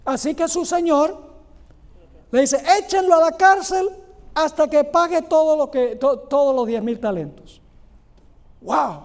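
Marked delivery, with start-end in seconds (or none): 2.8-7.6 a higher, louder master's command; stern order. Acted. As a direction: bark the order at the debtor. Señor ordena encarcelar al deudor. (orden severa del amo, más aguda y fuerte)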